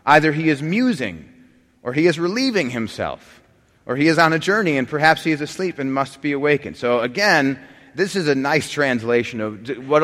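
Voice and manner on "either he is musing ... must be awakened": mocking taunt. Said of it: "Elijah mocked them".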